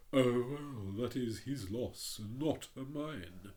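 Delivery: hint of a haughty rocket; lightly voiced pompous Rocket. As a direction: read it as a vain firework showing off. The Rocket's voice in the story.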